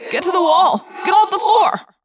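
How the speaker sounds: high, loud commands; urgent shouting. Acted. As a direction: yell across to save her. Shouting advice to panicked friend.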